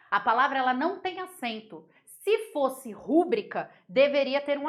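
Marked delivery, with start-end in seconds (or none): none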